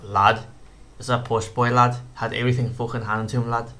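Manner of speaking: off-target Scouse imitation; half-successful mock Scouse accent; Paddy Pimblett accent. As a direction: try a Scouse fighter's accent and miss. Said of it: "my Paperman accent's normally on point".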